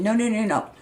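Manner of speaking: mildly heated, emphatic denial; angry retort. Retold or imitated. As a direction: push back angrily as in the retold argument. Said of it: "well, angrily".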